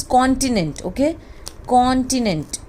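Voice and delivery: continent as KON-ti-nent, stress on KON; correct continent. Shown as a demonstration. Teacher models continent for students, clear. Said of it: "Now this is not".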